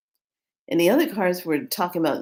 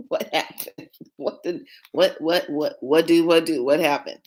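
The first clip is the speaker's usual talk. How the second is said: mock nervous panic. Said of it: "I'm like".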